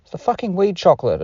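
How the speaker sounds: retelling a panicked dawning, pitch shooting up; stoned realisation. Retold or imitated. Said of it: "And I was like".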